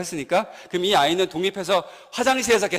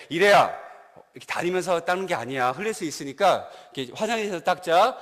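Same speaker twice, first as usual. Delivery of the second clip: polite and refined. Retold or imitated. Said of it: "점잖고 교양 있고 이렇게, 어, 이렇게 예의 바르게".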